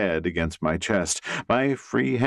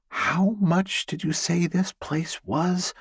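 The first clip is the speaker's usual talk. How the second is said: higher, lightly voiced young woman; Elizabeth's voice; 11 semitones higher than usual. Elizabeth asking the realtor the price, higher voice. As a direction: ask the price warily in her higher voice.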